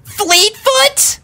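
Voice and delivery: high, loud scream close to tears; desperate scream. A narrator's reading. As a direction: scream a name near tears. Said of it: "on the brink of tears and screamed".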